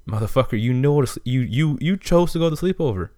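fed up and boiling over; heated rant. Pretend. Ranting at the kid who left the sleepover, heated.

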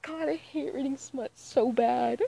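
drawn-out whining lament; whiny dread. Real, not acted. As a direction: complain as if close to mock tears. Groans about having to read smut.

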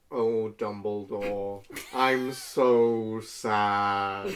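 slow, hammed-up sigh of despair; a drama queen moaning, drawn out; theatrical fake misery, very slow; mock sad Snape. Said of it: "back of his hand on his forehead".

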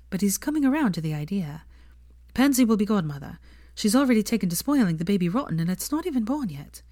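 a hint of a young woman's voice; Hermione voice.

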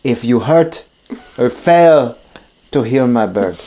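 low, slow vampire threat; menacing Dracula. Acted. Dracula warns the physician, low and slow. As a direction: lay out the threat with slow pauses. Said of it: "And he goes".

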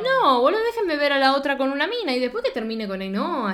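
loud and high, pleading; excited. Real, not acted. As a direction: raise it up, all worked up. Heated plea about the show.

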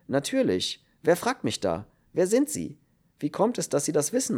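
rattled, firing questions at a stranger; agitated questions. A narrator's reading. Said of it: "fragte die Stimme aus dem Dunkel aufgewühlt".

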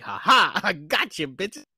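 high, happy taunt; playing a delighted gotcha; gleeful gloating. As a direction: crow in triumph, pitched well up. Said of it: "He's just so happy".

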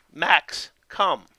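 firm name, pause, firm one-word command; firm but gentle. Shown as a demonstration. Dog trainer showing owners how to call Max, firm but gentle. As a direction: command a dog without anger. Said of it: "in a firm but gentle tone".

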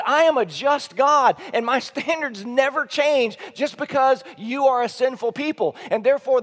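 God speaking. Acted. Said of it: "What he's saying is".

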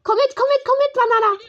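high, loud pleading calls; loud, high call to the running banana. Real, not acted. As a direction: call after it, begging it to follow. Calling the creature to follow.

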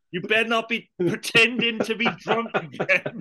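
lightly voiced landlord scolding a tenant; quoting the landlord. Fan quotes landlord scolding a tenant, lightly voiced. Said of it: "when he's talking to the fucking guy".

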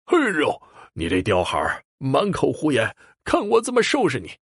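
high, sharp furious outburst; enraged threat. A narrator's reading. Elder brother Li Jian threatening the child, enraged shouting. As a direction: lunge at the child with the words. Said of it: "气急败坏的要上来揪他".

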